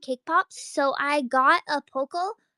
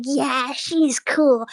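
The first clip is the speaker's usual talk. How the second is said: slow cool drawl; much slower than usual. Retold or imitated. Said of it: "they'd be like".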